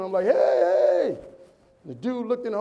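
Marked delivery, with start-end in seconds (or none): 0.2-1.2 loud, high shout up out of a hole; screaming for help. Acted. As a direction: holler to catch a passerby's attention. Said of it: "I started screaming".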